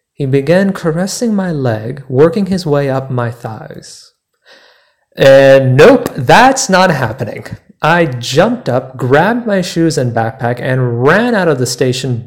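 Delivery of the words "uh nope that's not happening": loud, abrupt no; retold, raised flat refusal; firm refusal. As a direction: shut it down loudly. Stranger's hand on his leg.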